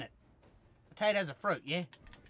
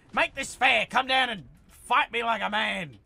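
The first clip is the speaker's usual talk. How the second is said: taunt; 5 semitones higher, 7 dB louder than usual. Real, not acted. Taunting enemy in a fight.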